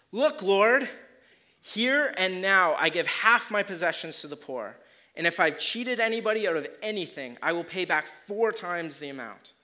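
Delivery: loud, high, earnest declaration; fervent vow. Acted. Zacchaeus vowing before the Lord, loud and fervent. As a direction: proclaim it like a changed man.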